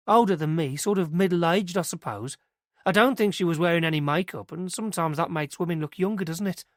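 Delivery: put-on earnest young witness telling it eagerly; girl's voice. Christie guesses age.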